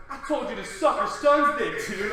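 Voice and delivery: mild New York tough guy; a hint of New York accent. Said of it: "tried to say it in a New York accent".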